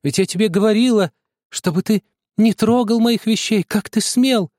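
high, loud furious scolding; angry shout. A narrator's reading. Sister berates the boy for touching her things, furious. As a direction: scold him hard, voice up high. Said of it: "закричала она".

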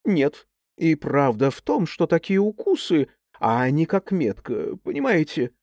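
firm. Acted. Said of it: "заявила твёрдо".

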